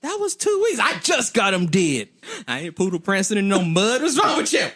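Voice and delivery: high, indignant wife; wife defending her fresh nails, high pitched; sassy wife rant. Retold or imitated. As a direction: rant like a wife who just got her nails done. Wife keeps scolding.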